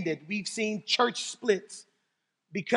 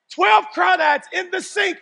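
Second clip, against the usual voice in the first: Twelve hit high and loud; stress on twelve; 9 semitones higher, 7 dB louder than usual. Real, not acted. Preacher repeating the crawdad count, Twelve stressed. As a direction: punch the word Twelve.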